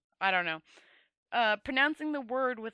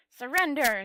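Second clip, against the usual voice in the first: commanding shout; 4 semitones higher, 8 dB louder than usual. A narrator's reading. Kistra demands surrender.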